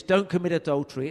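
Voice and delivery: loud, fast, barking the don't; harsh prohibition. Retold or imitated. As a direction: hurl don't commit adultery as a scolding ban. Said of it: "Your tone of voice threw me off".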